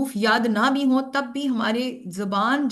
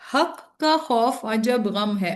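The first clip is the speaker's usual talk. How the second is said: slow dictation; slower than usual. Shown as a demonstration. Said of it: "आप ये जुमला याद कर दें".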